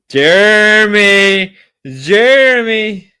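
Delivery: loud, drawn-out slow call. Real, not acted. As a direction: shout the name across the room. Calling out to chatter.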